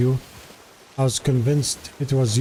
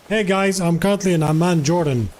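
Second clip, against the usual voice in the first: higher, upbeat vlogger greeting; imitating a YouTuber intro; 4 semitones higher than usual. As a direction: do a cheery YouTuber hello. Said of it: "he has a video saying".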